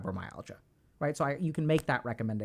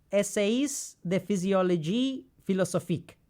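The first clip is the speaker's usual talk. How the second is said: book title in clumsy French; butchered French pronunciation; 2 semitones higher than usual. Real, not acted. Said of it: "Butcher the French pronunciation".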